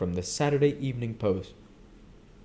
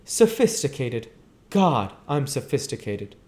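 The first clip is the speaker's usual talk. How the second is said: scornful; 5 semitones higher, 3 dB louder than usual. Acted. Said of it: "she laughed with thrilling scorn".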